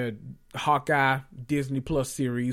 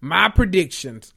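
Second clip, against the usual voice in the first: louder, grand announcement; announcing loudly; 3 semitones higher, 6 dB louder than usual. Shown as a demonstration. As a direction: proclaim it to the room. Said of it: "gather around, kids".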